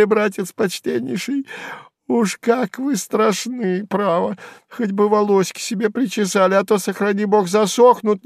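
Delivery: high, sneering squeal; high jeering voice; jeering jester, mock fear. A narrator's reading. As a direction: pretend to be scared, mocking. Сувенир mocks Харлов's threat.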